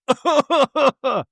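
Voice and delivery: high-pitched chuckling run; high laugh after a cry. Acted.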